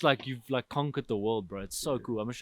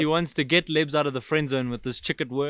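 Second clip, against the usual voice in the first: loud teasing read; 3 semitones higher, 8 dB louder than usual. Real, not acted. Reading a teasing viewer comment.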